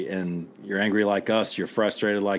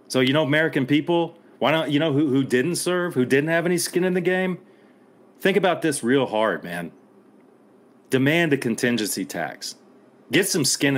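pointed challenge; 5 semitones higher than usual. Real, not acted. Veteran challenging civilians who never served, heated. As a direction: confront them with the question. Challenging American people directly.

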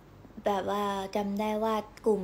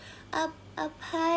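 timid Korean plea; 6 semitones higher, 4 dB quieter, much slower than usual. Retold or imitated. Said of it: "ก็เลยลองพูดกับเขาไปว่า".

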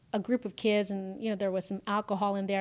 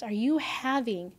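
gentle kind question; slower than usual. Retold or imitated. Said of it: "And she says".

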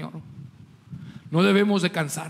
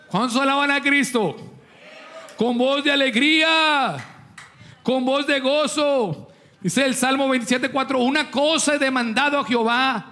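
higher-pitched rallying sermon voice; fervent preaching; 4 semitones higher than usual. Real, not acted. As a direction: rouse the congregation to praise.

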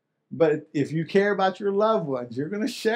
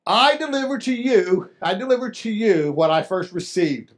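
quoting Paul; 2 semitones higher than usual. Retold or imitated. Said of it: "by first saying".

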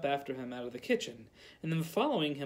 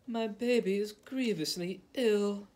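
sobbing mother; 5 semitones higher than usual. A narrator's reading. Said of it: "sobbing as though her heart would break".

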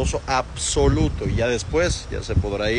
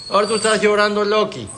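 higher, louder teasing voice; teasing pet talk; 9 semitones higher, 4 dB louder than usual. Real, not acted. Vet teases the whining dog Loki in higher, louder voice.

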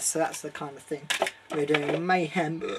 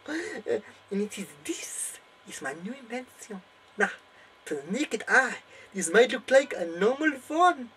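high, thrilled hammed-up German accent with a final cry; mad German professor; 9 semitones higher, 3 dB louder than usual. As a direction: build to a crazed eureka. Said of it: "I am Professor Von Strakontrek".

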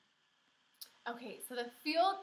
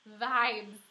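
dry repeat; 6 dB louder than usual. Acted. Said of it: "said Missus".

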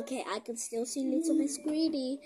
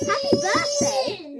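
mock laughing; 14 semitones higher, 11 dB louder, slower than usual. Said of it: "laughed Miss".

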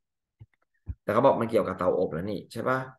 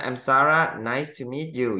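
Sarah raises her voice, higher, so David hears; louder repeat; 4 semitones higher, 4 dB louder, much slower than usual. Acted. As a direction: say your name again, louder and higher.

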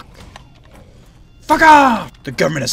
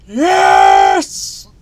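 high, loud cheer; celebrating a lucky find; triumphant yes; 8 dB louder than usual. Real, not acted. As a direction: punch the air with it. Celebrating loot.

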